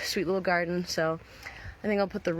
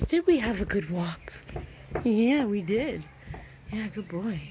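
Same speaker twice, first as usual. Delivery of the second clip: higher, singsong pet-owner voice; talking to dog; 4 semitones higher, 3 dB louder, slower than usual. Real, not acted. Owner praising the dog after a walk, singsong pet talk. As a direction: coo it to a beloved dog.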